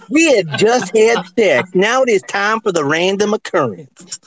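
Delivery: Ladies' Man voice. Retold or imitated. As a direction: purr it like a lounge lover. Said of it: "I'm gonna do another impression since we just talked about the ladies' man".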